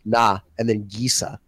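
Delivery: "nah" left open, then "Gisa" starting on the G; split syllables. Shown as a demonstration. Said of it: "He's saying N A".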